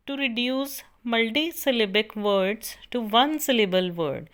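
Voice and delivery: slow, deliberate dictation for note-taking. Acted. Teacher dictating a definition to students, slow and measured. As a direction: spell out each word so students can copy.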